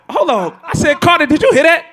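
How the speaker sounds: high, loud burst of excitement; excited double take. Retold or imitated. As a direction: act out suddenly catching something on the radio. Retells excited reaction to commercial.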